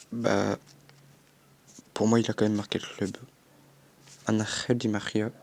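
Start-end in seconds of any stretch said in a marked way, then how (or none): 4.3-5.3 name said with a Spanish accent, jota in Angel. Shown as a demonstration. FIFA vlogger shows off his Spanish accent on the player's name, Spanish accent. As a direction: Angel Di Maria the Spanish way, guttural j in Angel. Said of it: "avec mon superbe accent espagnol".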